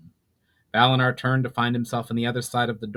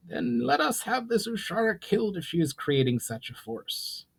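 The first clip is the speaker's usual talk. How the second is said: higher, commanding goblin ruler voice; a proud goblin lord laying down terms; goblin chief Brawl; 10 semitones higher, 4 dB quieter than usual. Acted. Brawl proposes killing.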